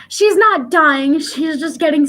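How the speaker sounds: words broken by laughter; real laugh mid-sentence; laughing through words. Real, not acted. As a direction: giggle through the line. Laughing while retelling.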